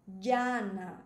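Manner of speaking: llana with LLA stressed and drawn out; penultimate stress. Shown as a demonstration. Teacher names the Spanish word type, penultimate stress. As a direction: lean hard on the first syllable of "llana". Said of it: "tem a força de pronunciação na penúltima".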